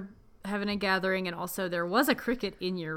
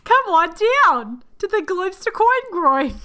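slow, loud, high commercial pitch; mock ad announcer; 9 semitones higher, 12 dB louder, slower than usual. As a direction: sell it like a cheesy TV ad.

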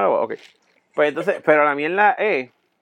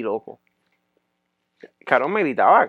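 normal talking voice

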